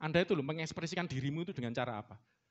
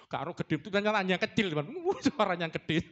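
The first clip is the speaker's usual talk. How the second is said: ordinary talk, nothing marked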